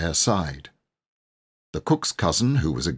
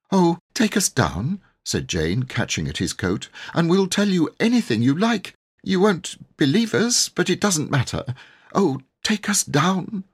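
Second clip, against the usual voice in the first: put-on higher girl's voice, pleading; begging girl; 10 semitones higher than usual. A narrator's reading. Jane begs the vicar to take them down, pleading high. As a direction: clutch his coat and beg.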